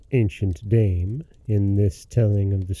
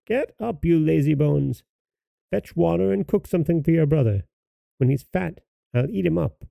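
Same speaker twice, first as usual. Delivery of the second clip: witch crying out; 5 semitones higher than usual. A narrator's reading. Witch waking Gretel to cook, high scolding cry. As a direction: order the child about in a high old-witch voice. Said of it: "and cried".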